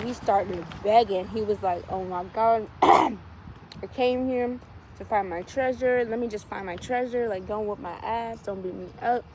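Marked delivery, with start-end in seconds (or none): 1.9-9.2 mock pleading. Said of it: "He's begging and pleading".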